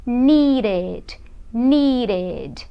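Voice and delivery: slow, drawn-out "needed", ending in a full "ed"; ED as extra syllable. Shown as a demonstration. Teacher models the past of need, "needed" with clear final syllable. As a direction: sound out both syllables of "needed". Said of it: "Então eu vou dizer needed".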